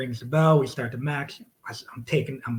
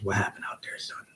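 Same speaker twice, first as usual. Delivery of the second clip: soft, low boss voice; a hint of a stern boss, hushed; lightly voiced boss asking quietly; quiet stern question; 4 semitones lower, 7 dB quieter than usual.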